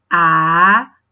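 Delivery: ABACAXI split slowly into A, BA, CA, XI; syllable by syllable. Shown as a demonstration. Teacher counting syllables for pupils, Abacaxi syllable by syllable. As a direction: say Abacaxi one drawn-out syllable at a time. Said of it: "contar de trás pra frente sempre as, as sílabas".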